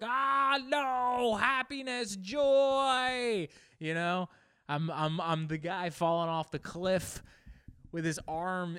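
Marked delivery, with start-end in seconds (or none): 0.0-3.5 high, loud hammed-up wail; mock despair. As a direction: cry after lost happiness, overdone. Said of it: "I'm like".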